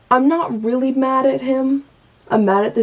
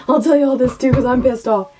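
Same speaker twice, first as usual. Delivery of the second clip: laughing; faster than usual. Real, not acted.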